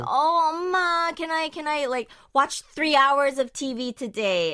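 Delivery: put-on whiny kid begging; child voice. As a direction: plead like a little kid. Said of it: "the little one's like".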